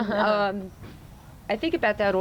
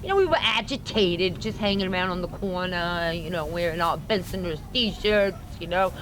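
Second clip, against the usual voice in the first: Brooklyn accent; 2 semitones lower than usual. Shown as a demonstration. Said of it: "with your Brooklyn accent".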